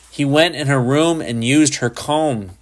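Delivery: put-on furious boy yelling tales; mock furious tattling scream; child screaming. A narrator's reading. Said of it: "he screamed".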